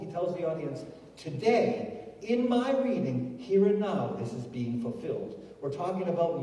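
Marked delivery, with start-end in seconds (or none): 1.2-5.4 raised-pitch declaration dropping at the close; proclaiming. Retold or imitated. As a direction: announce it to an audience, imitating a proclamation. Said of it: "and he proclaims".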